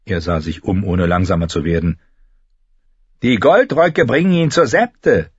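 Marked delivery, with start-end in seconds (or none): 3.2-5.3 put-on higher boy's voice, hurried. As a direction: answer over the shoulder. Boy answers running. (höhere Jungenstimme)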